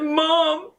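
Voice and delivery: slow, anguished cry for help; retold tearful scream. Daughter tells her mom to call nine one one, retold tearful scream. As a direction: draw it out, pleading through tears without really screaming. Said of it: "screamed to my mom".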